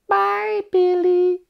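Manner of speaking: very high, tiny creature voice; cute gremlin voice. Shown as a demonstration. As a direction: squeak it like a sweet furry creature. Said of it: "The whole plot of Gremlins in four impressions".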